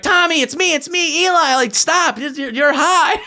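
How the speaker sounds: high, urgent mock pleading; retold pleading. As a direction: act out begging someone to recognize you. Pleading with attacker he knows.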